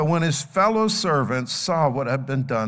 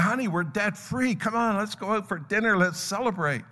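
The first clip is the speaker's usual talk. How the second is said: higher, lightly acted celebration; celebrating; 6 semitones higher than usual. Debt-free husband invites wife to dinner, celebrating. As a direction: share good news in a lifted voice. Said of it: "no doubt they celebrated and said".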